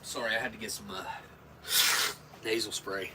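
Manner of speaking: stuffy nose, clogged up. Real, not acted. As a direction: speak with a blocked nose. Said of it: "I'm clogged up".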